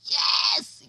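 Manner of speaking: a sudden high shouted yes; cheering yes. Real, not acted. Viewer cheering the mother on screen, shouted yes. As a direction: cheer her on like you're at church.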